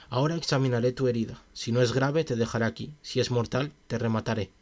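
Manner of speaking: measured, even audiobook reading; story narration. A narrator's reading. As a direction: read the tale aloud steadily. Reads a story aloud. (narración de cuento)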